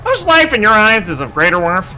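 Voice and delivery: arrogant, measured villain voice; cold scientist villain. Acted. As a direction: read it like a smug scientist. Villain monologue continues.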